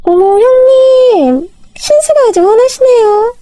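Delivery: a sister-in-law sneering sweetly at her elder; sarcastic sister-in-law. Acted.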